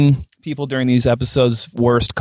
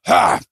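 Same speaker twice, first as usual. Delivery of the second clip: imitated spit-take; 4 semitones higher than usual. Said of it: "him just going".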